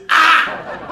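a loud, high, laughing "Ah!"; retold shout. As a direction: blurt it out as a startled yell. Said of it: "I come just shout".

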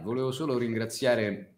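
ordinary talk

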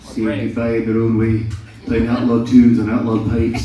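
a broad hammed-up Scottish accent, like Braveheart. Shown as a demonstration. Asked by friends for a Braveheart, in a mock Scottish accent. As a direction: roll it out like a Highland warrior. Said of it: "Let's hear a Braveheart".

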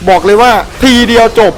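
บอกเลยว่าทีเดียวจบ crowed high with a falling finish; cocky boast. Real, not acted. Gamer bragging he killed the boss in one hit, high cocky crow.

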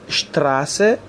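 اشتراسه with a clear "sht" cluster. Shown as a demonstration. Teacher repeating for learners, اشتراسه with sh for s. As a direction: say اشتراسه with sh before t.

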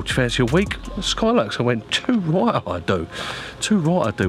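ordinary talk, nothing marked

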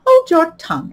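loud, brusque creature voice; gruff Gryphon voice. Acted. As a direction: bark it out like a gruff beast. Gryphon speaks.

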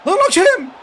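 full-volume outrage at the referee; "Lan hakem" bellowed with everything he has; furious shout at the ref. Real, not acted. Yelling louder at the referee.

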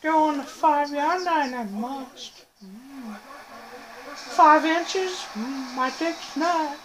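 high, drawn-out put-on creature voice; Yoda. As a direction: play a little cartoon sage, humming and stretching the words. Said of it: "People say I sound like Yoda".

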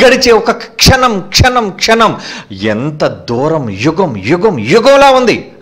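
preacher slowing to feel the waiting; slow, dragged-out longing. Acted. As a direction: stretch each word slowly. Preacher dramatizes the pain of separation.

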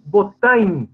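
"botanho" with the J nasalized; nasalized pronunciation. Shown as a demonstration. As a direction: model "botanho" with a nasal glide at the end. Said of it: "que marca a nasalização". ("botanho" com o J nasalizado)

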